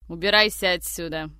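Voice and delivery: loud angry get out; host ordering the guest out, loud and angry. A narrator's reading. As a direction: throw him out with the voice. Konstantin throws him out.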